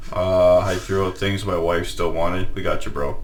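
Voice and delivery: sad husband voice. Retold or imitated. Voicing a downtrodden husband.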